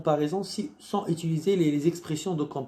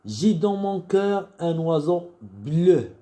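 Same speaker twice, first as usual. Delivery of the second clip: poem recitation; 2 semitones higher, 3 dB louder than usual. Shown as a demonstration. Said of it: "Alors, je vais lire".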